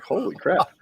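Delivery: high-pitched retold "whoa" reaction; mock astonishment, pitched well up; retold amazement. Recalling his shock at dumping a drunk guy, amazed.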